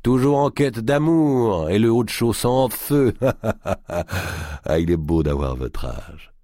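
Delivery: booming teasing giant; jovial teasing. Acted. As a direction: tease with a laugh. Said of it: "dit-il jovialement".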